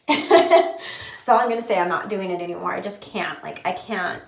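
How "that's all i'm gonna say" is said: teary laugh. Real, not acted. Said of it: "I just miss him".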